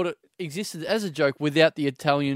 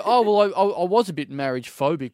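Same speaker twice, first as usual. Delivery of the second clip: mock eager proposal, building up; 4 dB louder than usual. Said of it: "Like I'm supposed to go".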